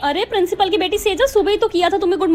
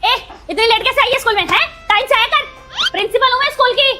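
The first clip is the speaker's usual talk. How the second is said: higher-pitched, quick telling-off; bossy scolding; 4 semitones higher than usual. Acted. Principal to someone late for school, scolding. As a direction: pull rank on a latecomer.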